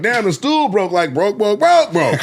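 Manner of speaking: high "broke" repeated in a bouncing sound-effect beat; mimicked cadence. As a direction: turn "broke" into a climbing rhythmic chant. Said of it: "I get up, I'm like".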